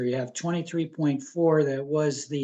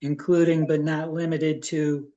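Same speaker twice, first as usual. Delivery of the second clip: measured reading, phrase by phrase; deliberate reading aloud. Real, not acted. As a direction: read out the motion carefully, pausing between clauses. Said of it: "I'll read it slowly".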